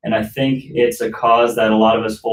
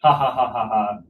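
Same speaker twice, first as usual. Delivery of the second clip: courtesy laugh. Shown as a demonstration. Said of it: "Lean into the mic and laugh".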